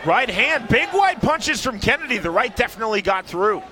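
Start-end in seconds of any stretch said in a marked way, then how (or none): 0.0-2.2 quick lift in pitch as punches fly; excited play-by-play. Real, not acted. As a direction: call the flurry with rising excitement. Live call of punches landing.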